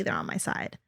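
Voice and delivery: breathy whisper. Retold or imitated. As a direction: drop to a whisper. Whispered emphasis to sister.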